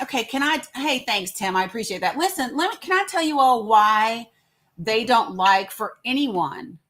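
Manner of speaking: normal talking voice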